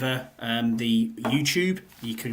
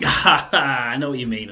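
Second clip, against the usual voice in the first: laughing; 6 dB louder, slower than usual. Real, not acted. Laughing agreement with co-host.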